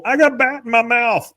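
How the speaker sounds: high, laughing half-scream; laughing mock scream. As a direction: squeal it through laughter like a panicked kid. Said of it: "Just screaming and running away".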